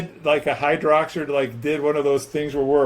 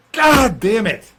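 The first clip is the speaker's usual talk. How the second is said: exasperated curse at a tongue-twister; real, mild exasperation; frustrated outburst; 3 semitones higher, slower than usual. Real, not acted. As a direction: curse your own fumbled word. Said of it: "I can't pronounce it".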